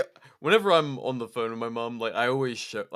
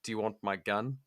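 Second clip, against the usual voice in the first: put-on casual offer in a quasi Kiwi accent; 3 dB quieter than usual. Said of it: "quasi, uh, Kiwi accent".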